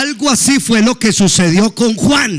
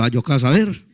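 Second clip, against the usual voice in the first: laughing shrug; 7 semitones lower, 5 dB quieter, faster than usual. Retold or imitated. Retells his own shrugging reply.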